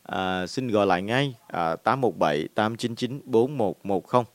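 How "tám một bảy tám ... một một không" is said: slow dictation. Shown as a demonstration. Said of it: "Lần nữa là".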